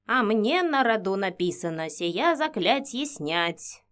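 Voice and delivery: slow pensive murmur in her ear; old woman whispering. Acted. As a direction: muse it slowly, half whispered. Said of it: "задумчиво шептала мне на ухо Инга".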